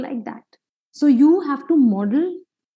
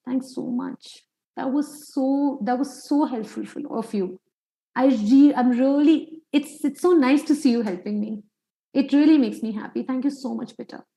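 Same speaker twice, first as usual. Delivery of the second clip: put-on gentle praise to child. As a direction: thank the child gently and sincerely. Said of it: "you know what you say?".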